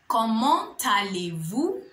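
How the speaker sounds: slow Comment allez-vous? with a rising end; slow formal French. Shown as a demonstration. Teacher modelling Comment allez-vous? for learners, slow and rising. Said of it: "you want to say".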